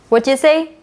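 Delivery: "What you say" as "whatcha say", rising high; casual run-together question "What you say"; blended sounds. Shown as a demonstration. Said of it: "native speakers often blend the sounds".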